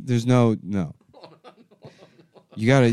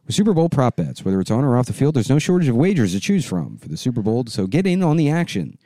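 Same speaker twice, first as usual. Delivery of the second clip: upbeat sponsor read; 5 semitones higher, 3 dB louder than usual. Acted. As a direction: sell the Super Bowl bets. Leads an ad read.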